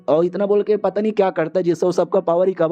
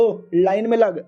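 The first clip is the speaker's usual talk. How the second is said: drawn-out, slow command to a queue-jumper; mock brusque order; 3 semitones higher, slower than usual. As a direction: stretch it out like a lightly acted order. (खींचकर दिया गया हल्का हुक्म)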